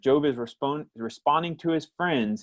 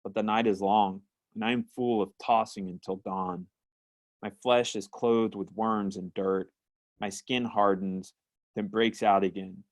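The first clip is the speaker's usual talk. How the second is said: scripture reading. Acted. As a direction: read the verses gravely, like a lament. Reads Job passage aloud.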